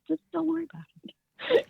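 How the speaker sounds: imitating a Southern dad's gentle reassurance; quiet Southern impression of her dad, comforting; dad's Southern accent. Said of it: "he had this Southern accent".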